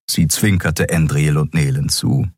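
plain reading voice

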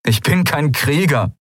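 Kai, pleading; protesting young man. Acted. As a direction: protest weakly.

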